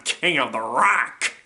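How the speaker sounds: toned-down character boast. Acted. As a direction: say the title without shouting. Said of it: "I'll be doing the voices".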